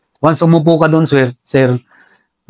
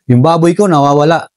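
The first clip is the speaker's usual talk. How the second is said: imitated calling out; faster than usual. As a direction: call out as a warning signal, only half raised. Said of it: "Sisigaw na yan ng".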